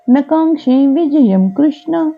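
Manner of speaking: slow, measured Sanskrit shloka chant; verse recitation. Acted. Teacher reciting a Gita verse for learners, measured chant. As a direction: recite the verse in long, drawn-out syllables.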